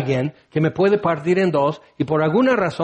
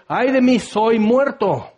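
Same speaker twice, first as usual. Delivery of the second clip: terrified cry; 6 semitones higher, slower than usual. Acted. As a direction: cry out as if facing death. Isaías aterrado ante la gloria. (grito de espanto, agudo y lento)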